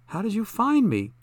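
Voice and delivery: sharp, high-pitched demand. A narrator's reading. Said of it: "Zelda demanded".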